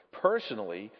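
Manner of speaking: low, pointed stress on personally; weight the word personally with self-importance; emphatic PERSONALLY. A narrator's reading. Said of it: "with an emphasis which contradicted the ordinary meaning".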